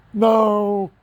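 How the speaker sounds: loud, high shouted "No!". Retold or imitated. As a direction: cry out in protest, full volume. Imagined family's outcry.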